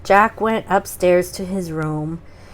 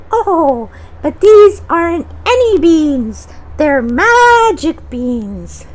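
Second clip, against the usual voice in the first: put-on high, slow old lady voice; 8 semitones higher, 5 dB louder, slower than usual. Funny old lady asking Jack for his cow, high slow voice. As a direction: put on a creaky-old-woman character, much higher.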